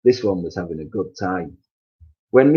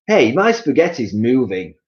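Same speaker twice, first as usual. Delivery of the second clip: high, louder startled husband; surprised cry; 4 semitones higher, 6 dB louder than usual. Acted. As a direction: cry out at the plate. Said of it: "cried Mister Twit".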